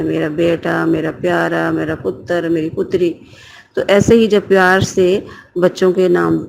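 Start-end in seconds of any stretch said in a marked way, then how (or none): 0.0-3.1 softer pet names cooed fondly; mother fondly calling her children by pet names; loving mother. Retold or imitated. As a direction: imitate a mother softly doting on her child. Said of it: "وہ کہتی ہیں".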